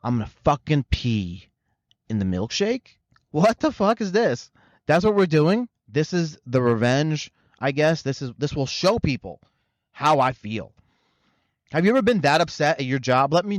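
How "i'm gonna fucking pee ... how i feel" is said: hammed-up angry manager, rising in disbelief; mock furious rant. Manager venting about customers, in mock fury. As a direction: play the fed-up worker plotting petty revenge. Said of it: "He's like".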